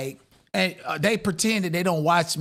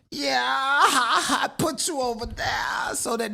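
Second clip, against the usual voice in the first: laughing; 6 semitones higher, slower than usual. Real, not acted. Gloating about a rival.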